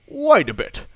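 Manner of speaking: high, loud yell; shouted threat. Acted. Grandmother shouting at the wolf to trap him. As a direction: bellow at the wolf. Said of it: "she cries".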